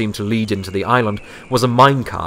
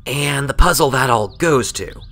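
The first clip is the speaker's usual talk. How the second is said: wry; 4 semitones higher than usual. A narrator's reading. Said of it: "pointed out wryly".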